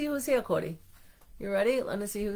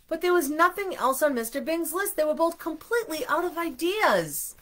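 higher-pitched, animated read-aloud; storybook reading; 8 semitones higher than usual. A narrator's reading. Parent reading a picture book to children, animated storybook reading. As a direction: tell it with lively rises and falls for little listeners.

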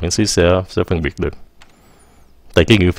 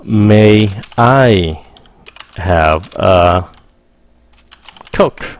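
polite; much slower than usual. Shown as a demonstration. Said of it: "Lịch sự hơn nè".

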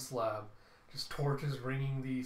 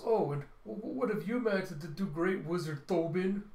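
mocking retort; 5 semitones higher, 4 dB louder than usual. Brother mocking brother back.

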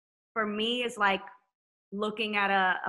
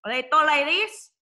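louder, higher Hispanic accent; 6 semitones higher, 7 dB louder than usual. Shown as a demonstration. Showing how Hispanic singers talk, Hispanic accent. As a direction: play up a Hispanic speaking accent. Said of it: "Hispanic, the accent".

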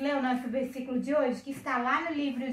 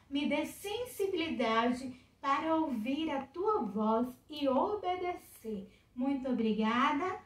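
prayer. Real, not acted. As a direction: pray in short, spaced phrases. Leads a short prayer.

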